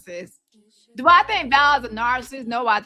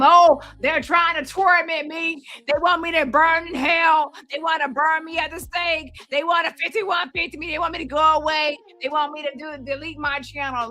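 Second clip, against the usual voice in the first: hammed-up high whiny shout, mocking her; mock scream; 6 semitones higher than usual. Mocking Val's overreaction, a higher hammed-up mock scream. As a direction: wail it higher like an overdramatic victim. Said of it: "So now she's going to scream".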